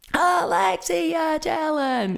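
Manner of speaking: play-acted shrill, very high, exasperated holler. Retelling how they kept yelling at their little Echo Dot, retelling a yell. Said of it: "And I'm yelling at this little thing".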